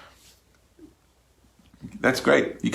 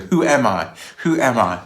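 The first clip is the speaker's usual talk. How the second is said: louder, higher searching cry; acted calling out; 3 semitones higher, 4 dB louder than usual. Woman asking round the village who she is, acted calling out. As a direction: call it out in search of an answer.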